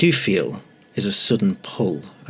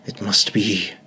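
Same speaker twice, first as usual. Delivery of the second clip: booming voice; slower than usual. Acted. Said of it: "a booming voice".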